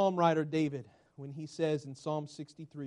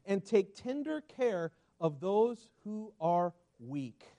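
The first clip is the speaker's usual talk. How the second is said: tender reading; 2 semitones higher, slower than usual. Acted. Pastor reading the verse to the church, slow and tender.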